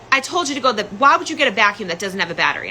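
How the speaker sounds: hurried angry retelling without real shouting; retold flipping out. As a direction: imitate dad flipping out, words rushing. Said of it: "just flipping out on me".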